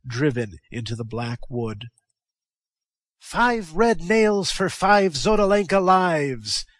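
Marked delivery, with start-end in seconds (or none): 3.2-6.7 higher, louder, slow triumphant cry; exulting. A narrator's reading. Techotl crying out to the crowd over the pillar, exultant. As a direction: savour every word of vengeance. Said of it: "exulted Techotl".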